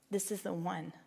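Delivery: soft, low-key voice of God; quietly spoken. A narrator's reading. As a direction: drop to a hushed aside. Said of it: "God spoke quietly to John".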